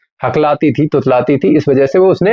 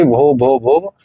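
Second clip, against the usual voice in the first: stammering; much slower than usual. Retold or imitated. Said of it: "She began to stammer".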